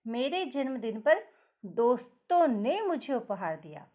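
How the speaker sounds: मुझे pushed out a bit; stress on मुझे. Shown as a demonstration. Teacher modelling stress on मुझे for pupils. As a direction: lean on मुझे, to me. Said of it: "इस शब्द पर हम थोड़ा स्वर भार दे रहे हैं".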